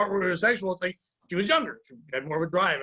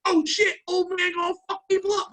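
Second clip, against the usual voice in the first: higher mock Irish accent, amused; 11 semitones higher than usual. Coworkers react to his age in Irish accent. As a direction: lean into a put-on Irish accent. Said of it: "they were obviously Irish with the accent".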